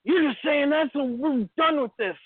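high-pitched mock scolding; imitated insistent mom. Mom rejecting her child's false confession, mock insistent. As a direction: act out a mom cutting off an argument.

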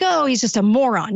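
dismissive imitation of the public, brushing it off; mock shrug-off. Host imitating the public's dismissive shrug about the president. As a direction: lightly mimic people waving it away. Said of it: "It's like".

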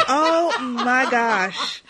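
drawn-out laughing oh my gosh; laughing delight. Real, not acted. Host laughs in delight at news of big names joining.

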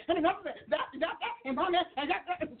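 laughing excited babble; breathless giggly rambling; imitating her own chatter. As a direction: gush and stumble over words. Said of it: "I'm all excited".

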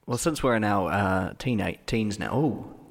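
echoing like a tiled bathroom; bathroom reverb. Real, not acted. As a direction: voice bouncing off bathroom tiles. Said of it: "I sound like I'm in the bathroom".

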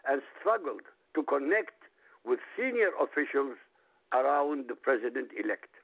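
quoting a document aloud, phrase by phrase; reading aloud. Real, not acted. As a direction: read the quote out deliberately, in measured phrases. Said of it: "I'm reading".

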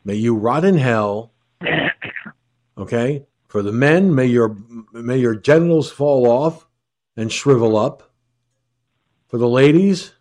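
solemn, bitter malediction; laying a curse. Real, not acted. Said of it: "sounding so cruel".

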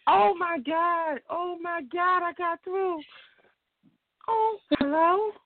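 high, stretched-out, overwhelmed disbelief; real starstruck joy, pitch way up; ecstatic caller. Real, not acted. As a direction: gasp it out high, overjoyed to get through. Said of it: "so ecstatic right now".

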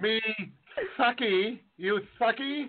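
put-on accent, laughing; mock Asian accent. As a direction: imitate the coworker's accented lisp. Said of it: "Asian accent that has a lisp".

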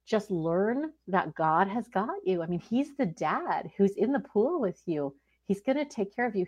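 normal talking voice

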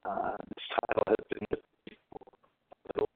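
choppy, breaking-up phone line. Real, not acted. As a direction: voice cutting out on a bad connection. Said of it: "you're breaking up a bit".

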